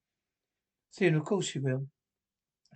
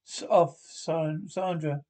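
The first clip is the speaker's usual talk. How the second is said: sharp call to stop; slower than usual. Acted. Stepmother stops loud piano.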